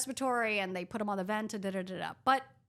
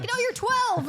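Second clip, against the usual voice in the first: imitating parents in a loud, high voice; hammed-up disbelief, pitched way up; scoffing parents; 8 dB louder, slower than usual. Parents dismissing the young doctor, scoffing. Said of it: "They're like".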